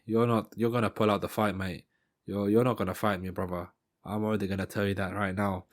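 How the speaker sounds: attempted South African accent; Dricus. Fighter taunts his opponent before the bout, rough South African accent. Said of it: "I can't even do the South African accent".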